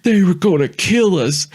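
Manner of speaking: high, urgent yell. Retold or imitated. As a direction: insist at the top of your voice. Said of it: "I was like".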